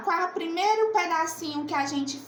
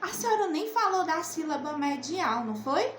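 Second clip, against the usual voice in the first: imagined pupil; 3 semitones higher than usual. Acted. Teacher voicing a pupil's objection, lightly imitated pupil. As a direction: gently imitate a pupil calling the teacher out on something. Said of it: "alguém pode dizer".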